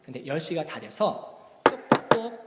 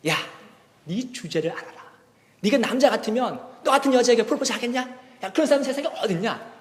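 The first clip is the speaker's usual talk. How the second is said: scoffing inner voice; 5 semitones higher than usual. Retold or imitated. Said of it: "속으로는 이렇게 얘기했다고 합니다".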